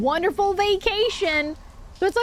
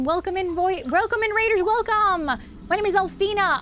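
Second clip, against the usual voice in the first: cute anime streamer; 5 semitones higher than usual. Real, not acted. Welcoming raid, introducing persona.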